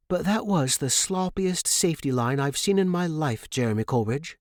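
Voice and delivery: mock-scold a careless student; a hint of a stern mentor; Mrs Perez Granger scolding. A narrator's reading.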